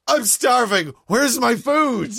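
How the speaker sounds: put-on high, slow whiny kid voice; dad mimicking his younger son's high, drawn-out whine; whiny child. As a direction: whine like a hungry little boy. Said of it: "an actual proper child".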